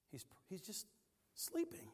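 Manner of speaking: hushed whisper of the word. Acted. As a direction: whisper it like not to wake him. Whispered punchline about sleeping Peter.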